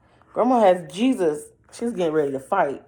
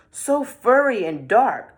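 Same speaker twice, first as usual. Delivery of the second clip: higher, louder, slow; wary grandma; 5 semitones higher, 5 dB louder than usual. A narrator's reading. Grandma eyeing the wolf, slow and loud. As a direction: say it slowly, suspicious.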